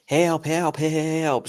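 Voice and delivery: high, drawn-out mock cry for help; Toby's help scream. Demonstrating Toby's scream for the audience, high mock wail. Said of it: "scream with the impression of different narrators".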